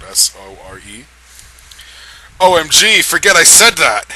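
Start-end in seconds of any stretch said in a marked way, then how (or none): 2.4-4.1 higher, louder flustered blurt; hammed-up mortified outburst; embarrassed Edward. A narrator's reading. Edward embarrassed after confessing love, flustered shout. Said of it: "He looked really embarrassed".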